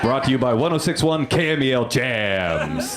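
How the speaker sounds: lightly hammed radio announcer; a touch of sponsor-read swagger; radio station sponsor tag. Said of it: "That was the local radio station".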